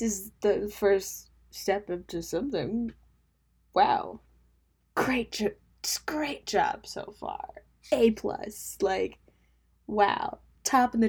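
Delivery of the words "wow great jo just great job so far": sarcastic whisper. Real, not acted. Sarcastic self-praise aside.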